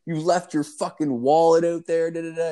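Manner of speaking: high exasperated telling-off; scolding in retold outrage. Friend scolding roommate about the wallet, exasperated.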